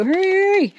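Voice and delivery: sudden high urgent cry of hurry; yelling at herself. Real, not acted. Urging herself on mid-print, high sharp yell. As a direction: hurry yourself up with a high yelp. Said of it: "that's what I'm yelling at my head too".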